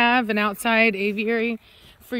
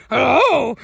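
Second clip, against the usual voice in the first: eerie parrot hello; 3 semitones higher, 6 dB louder than usual. Retold or imitated. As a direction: imitate the freaky bird voice. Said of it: "And the voice changes too".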